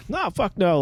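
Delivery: mock Boston accent; a rough Boston lobster guy. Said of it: "just in a Boston accent".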